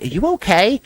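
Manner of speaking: imitated sweet lady, high lilting opening question; super sweet. Sweet teacher tells a coughing new colleague to rest, super sweet. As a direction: fuss kindly, starting high and easing down. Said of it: "Super sweet lady".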